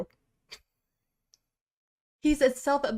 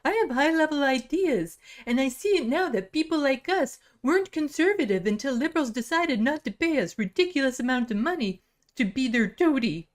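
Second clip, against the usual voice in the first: lightly voiced smug pundit; a hint of a fake Canadian accent; Dave Rubin impression. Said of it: "my Rubin impression sound like my fake Canadian accent".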